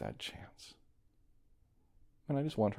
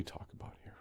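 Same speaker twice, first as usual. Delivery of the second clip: whisper; 19 dB quieter, faster than usual. Real, not acted. Soft aside ending the section.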